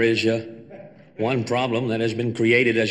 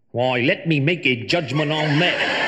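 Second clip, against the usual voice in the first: higher, lighter take on the famous line; the speaker's brand new voice; 5 semitones higher than usual. Shown as a demonstration. The speaker tries his new voice on Jack's famous line. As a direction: speak it up high with the edge taken off. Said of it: "that's very good. Perfect. Now you've got a brand new voice".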